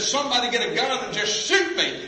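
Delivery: high, loud pleading cry; retold scream. Preacher voicing the trapped driver begging for death, high loud cry. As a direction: beg to be shot, voice up high. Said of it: "he began to scream".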